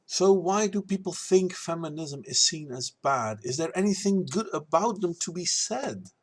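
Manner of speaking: lilting rhymed rebuttal; verse recital. Acted.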